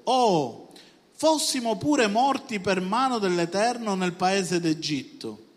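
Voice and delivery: loud, drawn-out complaint, lightly acted; dramatised lament. Israelites complaining to Moses and Aaron, dramatised lament. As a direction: cry out a mock lament, slowing down.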